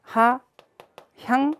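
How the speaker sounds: "우하향" very slowly, with gaps between syllables; 한 음절씩 강조. Shown as a demonstration. Teacher spells out term while writing. ("우하향"을 한 글자씩 띄어서 높게)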